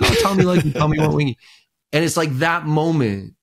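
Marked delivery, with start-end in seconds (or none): 0.0-1.4 higher, eager "tell me"; mock eager. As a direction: lean in, all eager. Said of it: "he's like".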